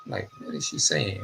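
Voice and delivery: soft breathy whisper of disbelief; hushed incredulous whisper; whispered aside. Retold or imitated. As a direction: whisper it behind mom's back. Kids reacting to mother's warning.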